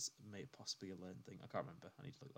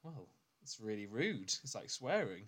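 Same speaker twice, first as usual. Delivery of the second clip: slow, deliberate alien; lightly voiced matter-of-fact alien; a hint of an alien explaining; slower than usual. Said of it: "what happens if you don't say it".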